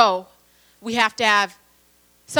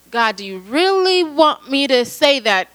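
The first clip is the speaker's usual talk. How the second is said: drawn-out, mildly pleading question; reluctant questioning; 3 semitones higher than usual. Retold or imitated. Believer asking God about a word for pastor, mild reluctance. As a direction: slowly stretch out "really" in mock reluctance.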